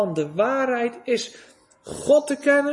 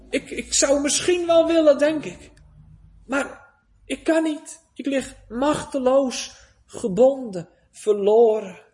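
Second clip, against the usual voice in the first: voiced despairing sinner; 4 semitones higher than usual.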